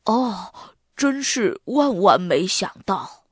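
amazed, understated character voice; a long "oh", then marvel. A narrator's reading. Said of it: "小灵通张大了嘴巴". (目瞪口呆地惊叹)

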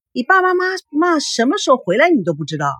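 high, astonished question; surprised. A narrator's reading. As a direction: sound genuinely taken aback. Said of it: "惊讶地说".

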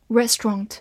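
British two-syllable "Restaurant" with rounded last vowel; British accent. Shown as a demonstration. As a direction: say "Restaurant" the British way, REST-ront. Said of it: "美式发音".

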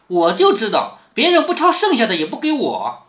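学黛玉略带冷意地埋怨; 轻度演出冷笑式的不满，句中稍扬. Acted. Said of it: "林黛玉冷笑道". (带一点冷笑的口吻)

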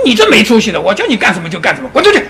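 master's hammed-up telling-off, rising to a shouted 滚出去; mock scolding. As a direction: scold the disciple and throw him out. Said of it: "他师父就骂他".

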